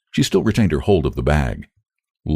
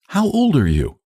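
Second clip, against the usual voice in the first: a sudden, higher demand; 11 semitones higher than usual. A narrator's reading. Sarah demands the girl's age, abruptly. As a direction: put the question abruptly. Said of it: "demanded Sarah Bannister suddenly".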